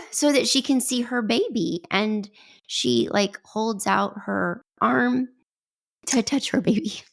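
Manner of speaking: starting to cry. Real, not acted. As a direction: fight back tears while telling it. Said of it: "I'm gonna start crying".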